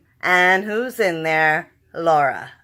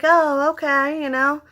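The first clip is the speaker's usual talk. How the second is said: higher, airy put-on Negan; mock Negan; 7 semitones higher than usual. Fan imitating Negan's casual reply to Dwight, higher. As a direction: toss it off lightly as Negan. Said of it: "Negan is just like".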